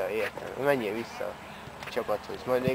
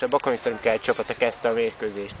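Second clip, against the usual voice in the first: sports commentary. Acted. Mock live match commentary.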